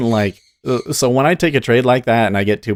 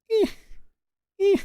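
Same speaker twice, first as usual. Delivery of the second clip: short high squeaks like a turtle; imitated turtle squeak; 3 dB quieter than usual. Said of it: "and he's like".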